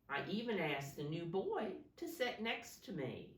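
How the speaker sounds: put-on clear, projected story reading to children; picture-book narration. A narrator's reading. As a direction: read it out expressively, stressing key words. Reads picture book aloud.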